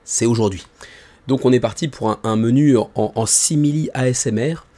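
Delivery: hoarse, strained voice; voice cracking. Real, not acted. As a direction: talk through a breaking voice. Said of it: "j'ai la voix qui part en vrille".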